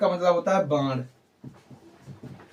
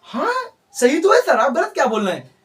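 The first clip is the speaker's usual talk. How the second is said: mock student protest; 6 semitones higher than usual. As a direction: play a student sure the teacher is right. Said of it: "अब तुम कहोगे". (छात्र की हल्की नकल, ऊँची और तेज़ आवाज़)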